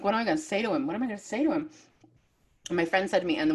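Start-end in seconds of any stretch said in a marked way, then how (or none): 0.0-1.7 higher-pitched fretting, lightly acted; retold anxiety. Fan about to meet her favourite author, anxious. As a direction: fret to yourself in mock panic. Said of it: "I get an anxiety".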